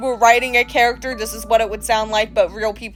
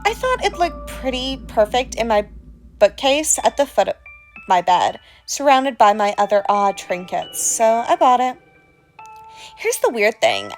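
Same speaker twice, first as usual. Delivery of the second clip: creepy storyteller voice. Acted. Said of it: "without this accent".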